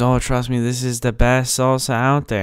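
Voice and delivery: put-on Hispanic accent, talking up the goods; thick Hispanic accent. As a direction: mimic a salesman's pitch in a Hispanic accent. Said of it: "really thick Hispanic accent".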